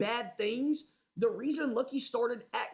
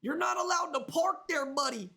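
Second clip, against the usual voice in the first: mock yell; 4 semitones higher than usual. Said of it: "yell out the window".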